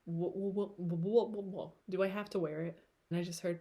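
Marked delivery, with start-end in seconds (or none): none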